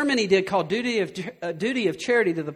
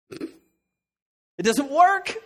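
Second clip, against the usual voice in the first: slow emphatic; 7 semitones higher, 4 dB louder, much slower than usual. Real, not acted. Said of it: "I can tell you as a guy".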